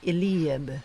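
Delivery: "Eliab" as ee-LEE-ab, middle syllable like "lee"; alternative pronunciation. Shown as a demonstration. Trainer gives the also correct way, "Eliab" said ee-LEE-ab. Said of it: "It is also correct to say".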